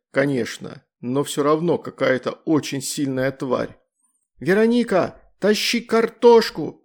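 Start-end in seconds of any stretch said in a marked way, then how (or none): 4.4-6.8 much higher, louder slow yell; yelling girl. A narrator's reading. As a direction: scream the order in battle. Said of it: "заорала Астрид".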